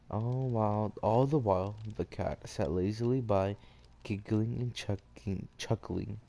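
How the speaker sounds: measured read-aloud storytelling; story narration. A narrator's reading.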